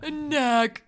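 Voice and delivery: "snack" said "nack", with no s; "A snack" in the little boy's way, "nack"; toddler pronunciation. Shown as a demonstration. Mom shows how her son says "snack", "nack". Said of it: "which is how he says".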